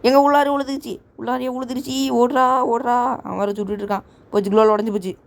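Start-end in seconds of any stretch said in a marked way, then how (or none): 0.0-3.2 alarmed cry. Real, not acted. Grenade lands inside, calls to run.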